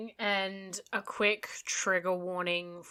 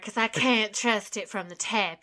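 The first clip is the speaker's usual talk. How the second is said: mock American accent. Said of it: "American accent".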